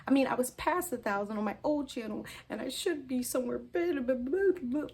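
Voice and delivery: high, mocking voice of her insecure ego; petty inner voice. Voicing her jealous ego to viewers, high and mocking. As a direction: sneer like your own bitter inner critic. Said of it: "This is my crazy mind".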